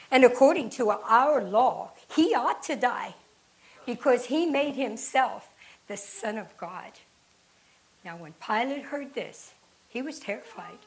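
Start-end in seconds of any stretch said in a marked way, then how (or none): 0.1-6.9 loud, pressing insistence; forceful insistence. Acted. Chief priests pressing Pilate, loud and insistent. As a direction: hammer home the law.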